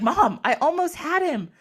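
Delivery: high, exasperated protest to mom; mock-mad son. Horus pulled from the fight, mock-mad protest. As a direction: whine at mom in mock outrage. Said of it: "So he's super mad".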